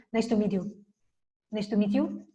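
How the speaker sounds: "nice to meet you" run together, endings swallowed; rushed Spanish style. Shown as a demonstration. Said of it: "Los españoles corremos". ("nice to meet you" atropellado, sin terminar)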